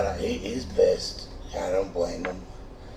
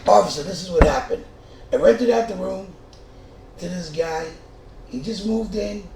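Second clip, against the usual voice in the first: hurried report to cop; 8 semitones higher, 3 dB louder than usual. Retold or imitated. Explaining to the police.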